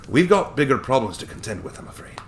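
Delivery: put-on chuckling old attorney, light Scottish touch; cheerful old Scottish lawyer.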